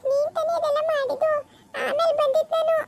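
high, laughing protest through chuckles; laughing defensively. Acted. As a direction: laugh off the accusation. Accused mother laughs it off. (ನಗುತ್ತಾ ಸಮರ್ಥನೆ)

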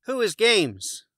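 high, puzzled moose voice; Morris the moose. A narrator's reading. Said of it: "Morris asked".

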